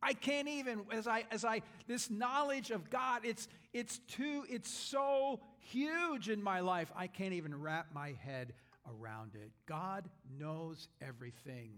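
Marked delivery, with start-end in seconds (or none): 0.0-9.5 high, breathless awestruck rambling; mock overwhelmed gush. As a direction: act out being lost for words. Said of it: "we would say something like this".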